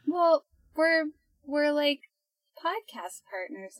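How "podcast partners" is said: hushed whisper of podcast partners. Real, not acted. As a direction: drop to a whisper. Awkward question about partnership.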